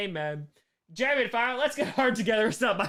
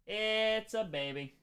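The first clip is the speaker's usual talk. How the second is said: tender coo; slower than usual. Real, not acted. Cooing over her cat.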